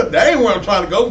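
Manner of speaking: words through real laughter; laughing at his own joke about leaving. Real, not acted. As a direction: chuckle while you say it.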